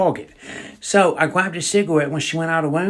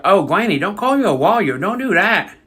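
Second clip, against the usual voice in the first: pleading; 4 semitones higher than usual. Retold or imitated. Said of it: "I was like".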